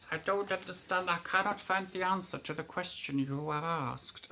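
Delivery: lightly voiced tinny phone assistant; tinny robot voice. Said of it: "this tinny voice came back saying".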